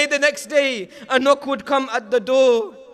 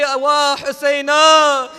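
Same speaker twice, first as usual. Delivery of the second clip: mourning wail; 6 dB louder, much slower than usual. Acted. Mourning lament on entering.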